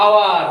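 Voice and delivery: আওয়ার starting on the vowel; silent h. Shown as a demonstration. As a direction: say আওয়ার with no h sound. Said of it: "এইচ এর উচ্চারণ".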